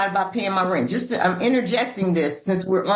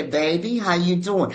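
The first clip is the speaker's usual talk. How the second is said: dad voice; 5 semitones lower than usual. Pretend. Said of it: "just to hear my dad say".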